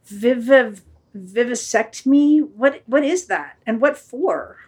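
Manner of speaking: slow, halting questions; mildly baffled dog; puzzled. Acted. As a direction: stumble over the strange word. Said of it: "The dog, puzzled".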